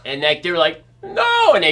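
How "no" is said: very high loud no; shout. Retold or imitated. BMX kids giving up the chase, high loud shout. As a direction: scream a high no.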